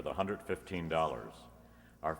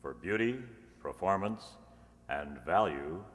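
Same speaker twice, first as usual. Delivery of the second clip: polished radio ad pitch; commercial read. Acted. Announcer selling lighters to radio listeners, polished ad read. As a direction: sell the lighters to the listeners, smooth and upbeat.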